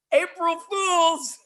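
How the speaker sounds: high, drawn-out, sing-out gotcha; gleeful prank reveal. Retold or imitated. Nurse revealing her prank to the sister, gleeful cry. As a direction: crow it with a huge grin, stretched out. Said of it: "she gets this huge grin".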